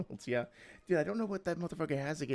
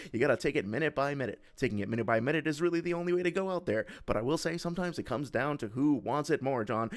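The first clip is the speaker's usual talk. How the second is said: sports announcer voice. Pretend. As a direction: call it like a TV sportscaster. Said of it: "I'm reading it in, like, an announcer voice".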